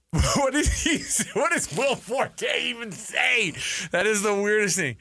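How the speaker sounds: half-laughing, lightly put-on high voice; a hint of a goofy comedy character; Will Forte character. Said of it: "That's a good Will Forte".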